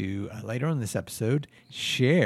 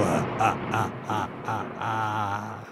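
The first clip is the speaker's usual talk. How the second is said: lightning noises; 3 semitones lower, much slower than usual. Acted. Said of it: "Lightning noises".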